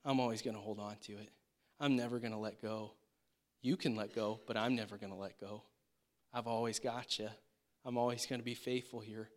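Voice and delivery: low, soft, reassuring promise; lightly voiced gentle father, quick and steady; heavenly Father. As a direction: reassure a child, low and easy. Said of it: "a heavenly Father who says".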